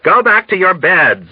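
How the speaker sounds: high, urgent plea; pleading. A narrator's reading. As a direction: beg them to obey. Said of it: "Nurse Duckett pleaded".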